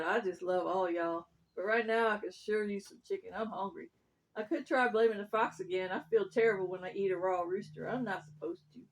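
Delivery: slightly drawling, easygoing dog; a hint of a folksy dog; lightly voiced hungry dog. Dog in story.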